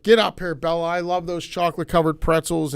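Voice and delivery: loud, high, happy call; delighted neighbor. Retold or imitated. Neighbor calling the girl up to his door, loud and delighted. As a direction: hail her from the porch. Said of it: "he's like".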